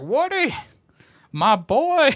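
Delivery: put-on very high, swooping, unhinged old man voice. Imitating Al from Al's Toy Barn finding Woody: deranged old man voice. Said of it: "he's like some deranged old man".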